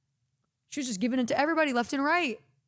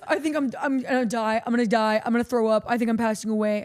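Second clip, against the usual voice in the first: retold panicked crying; 6 dB louder than usual. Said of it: "And he's crying".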